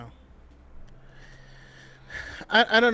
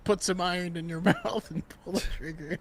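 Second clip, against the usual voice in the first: quoted line, laughing; 4 dB quieter than usual. Retold or imitated. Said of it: "give me a line from Cyberpunk".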